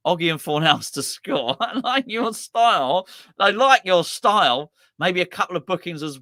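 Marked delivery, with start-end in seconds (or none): 1.6-4.7 delighted. Real, not acted. Delighted praise of viewer.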